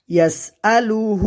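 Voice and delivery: "يسأله" chanted, last vowel held; one-alif elongation. Shown as a demonstration. Teacher showing learners "يسأله" with a stretched ending. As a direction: draw out the final "hu" of "يسأله". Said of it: "এক আলিফ পরিমাণ টেনে পড়তে হবে".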